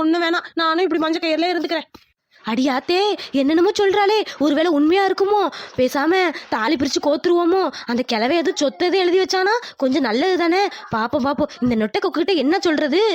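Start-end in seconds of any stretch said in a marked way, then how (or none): 2.5-13.0 put-on greedy old woman getting excited; excited mother-in-law.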